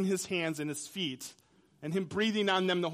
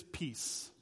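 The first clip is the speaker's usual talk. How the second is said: a soft unvoiced whisper; hushed, calming whisper; whispered peace; 6 semitones lower, 9 dB quieter than usual. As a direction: breathe the word out gently. Jesus speaks peace to frightened disciples.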